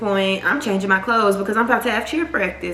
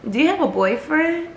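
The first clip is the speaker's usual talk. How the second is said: lightly voiced girl, pitched higher; a hint of a nosy stranger asking; curious girl; 8 semitones higher than usual. Retelling the girl's odd question.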